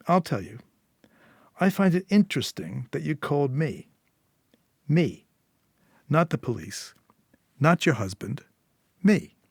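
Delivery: knowing Eddie, lightly voiced. Fixer telling Julia why she called him, lightly voiced.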